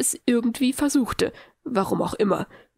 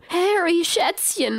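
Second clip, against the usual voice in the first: high-pitched delighted cry of greeting; higher, doting exclamation; effusive motherly greeting; 8 semitones higher, slower than usual. A narrator's reading. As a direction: gush over a beloved child. Mother bursts in greeting Harry.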